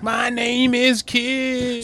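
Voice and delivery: hammed-up rapper-style intro; mock rapper intro. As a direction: stretch each word like a cheesy entrance. Mocking a rapper's gimmick.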